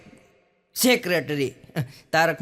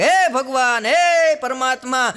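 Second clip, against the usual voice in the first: mock prayer; 4 semitones higher, 4 dB louder, slower than usual. Wife praying to God.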